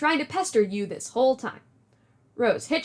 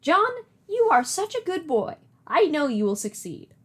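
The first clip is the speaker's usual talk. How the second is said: Nana voice; 4 semitones higher than usual. Acted. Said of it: "Do you like my Nana voice?".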